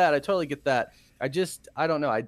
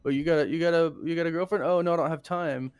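higher-pitched mock chitchat, stumbling at first; lightly acted, raised-voice banter between exes; awkward small talk with an ex; 5 semitones higher, 3 dB louder, faster than usual. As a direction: act out both sides of an awkward catch-up. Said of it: "so it's really weird".

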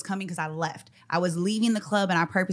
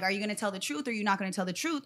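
quick, softer mock questioning; retold questioning; 6 dB quieter, much faster than usual. Jumped woman quotes the others during the fight, retold questioning. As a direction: rattle the question off quickly, under the voice. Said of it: "they're going like".

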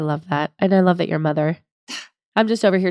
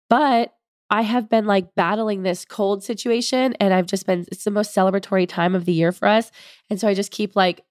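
blocked nose. Real, not acted. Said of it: "I sound like I can't breathe through my nose".

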